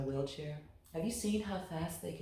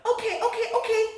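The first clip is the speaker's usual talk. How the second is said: high, loud laughing okay; 10 dB louder, faster than usual. A narrator's reading. Loretta laughing as she gives in to her mother. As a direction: giggle it out, way up high. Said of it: "said Loretta".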